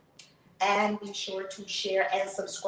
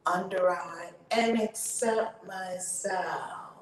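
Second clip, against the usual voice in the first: tapping affirmation lead; much slower than usual. Acted. Tapping coach leading viewers through affirmations, slow chanting lead.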